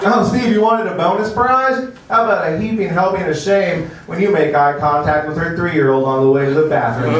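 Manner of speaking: lightly voiced prize announcer; a hint of a cheesy game show host. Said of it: "game show announcer voice in my head".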